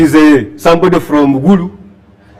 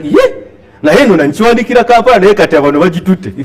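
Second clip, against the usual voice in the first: mock triumphant; faster than usual. Writer gloating about sales.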